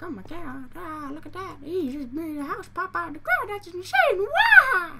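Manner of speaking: squealing high, hammed-up awe that builds to a loud laughing shriek; mock amazed friend. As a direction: play the gushing friend who can't believe their eyes. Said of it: "be like".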